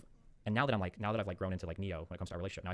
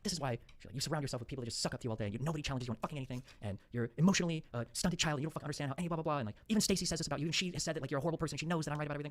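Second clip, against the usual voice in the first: mock rant in a raised pitch; imitated unhinged rant; 6 semitones higher than usual. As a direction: imitate someone railing on, higher-pitched. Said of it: "like, unhinged".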